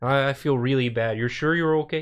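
imitated fretting Canadian driver; apologetic Canadian impression; Canadian accent. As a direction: check on them in a Canadian accent. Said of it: "like, a thick Canadian accent".

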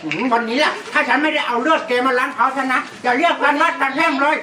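threatening yell. Acted. Villager threatens the boss.

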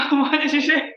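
mock bafflement through laughter; imitating a puzzled American listener, laughing; laughing confused American. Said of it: "they were like".

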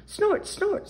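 high, bright little pig snorts; happy piglet snort. A narrator's reading. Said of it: "said George happily".

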